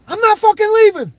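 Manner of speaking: high, loud defiant movie-speech yell; Leonardo DiCaprio. Retold or imitated. Quoting Wolf of Wall Street to viewers, defiant shout. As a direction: belt it out as a rallying refusal. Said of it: "Wolf of Wall Street when, uh, Leonardo DiCaprio got up there".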